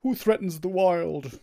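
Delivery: Ancient of War voice. Pretend. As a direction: speak like an ancient walking tree. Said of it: "I can also do the Ancient of War".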